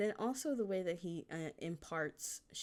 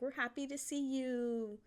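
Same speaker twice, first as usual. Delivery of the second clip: the water's voice; 9 semitones higher than usual. Pretend. Water voiced greeting Macaque.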